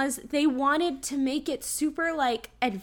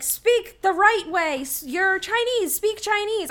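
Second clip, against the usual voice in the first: mock cop order; 7 semitones higher than usual. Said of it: "he's like".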